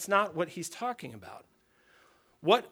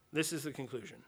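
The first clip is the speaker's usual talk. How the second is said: quieter repeat; 3 semitones lower, 9 dB quieter than usual. Real, not acted. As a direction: drop to a softer echo of the line. Repeats the conclusion line twice.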